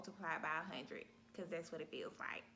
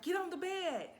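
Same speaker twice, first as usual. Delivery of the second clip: high, loud command; sharp order; 10 semitones higher, 7 dB louder than usual. Retold or imitated. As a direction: bark it at the patient. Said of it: "she's like".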